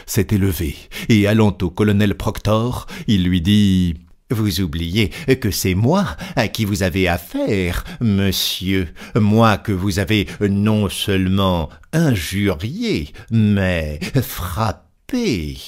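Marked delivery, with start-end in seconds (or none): 4.3-15.6 slow, deliberate, a touch of menace; stern Fix. Acted. Fix reminds the colonel he struck him, slow and stern. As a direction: lean on each word, holding back anger.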